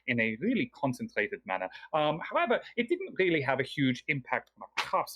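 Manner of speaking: lightly voiced El Romior, polite host; lightly voiced scholar NPC. El Romior's long in-character explanation.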